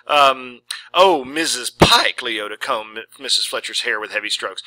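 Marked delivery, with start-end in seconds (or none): 0.9-2.2 high, drawn-out sweet hello; gushing salon greeting. Acted. Hairdresser greeting her customer, high and drawn out. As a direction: croon the name up high like a fake-friendly hairdresser.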